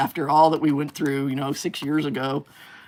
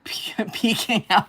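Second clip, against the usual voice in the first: whispered teasingly; playful whisper; 5 semitones higher, slower than usual. Pretend. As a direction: whisper it like a secret. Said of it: "C C After Dark".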